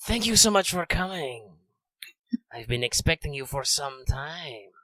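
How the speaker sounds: a hunter toying with his prey; Radamus lizard voice. Acted. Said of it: "I'm doing kind of a lizard man voice, so I have to roll my S's".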